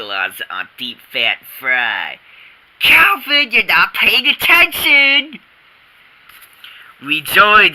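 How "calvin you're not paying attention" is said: higher, sharper scold; scolding teacher. Acted. Teacher scolds Calvin for not paying attention, sharp and raised. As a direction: snap him out of his daydream.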